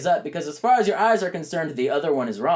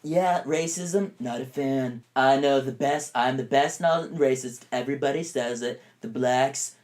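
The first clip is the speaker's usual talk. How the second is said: slow, lightly done Trump drone; mock Trump; slower than usual. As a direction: brag like a clueless Trump. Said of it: "Just say".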